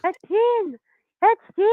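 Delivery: insistent high-pitched repeat; high squeaky voice. Real, not acted. Misheard caller repeating his name to radio host, high squeaky voice. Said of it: "you've got a really high voice".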